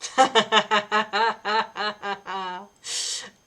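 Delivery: mock evil laugh; long villain cackle on request; sadistic laugh. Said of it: "est-ce que tu sais faire le rire sadique?".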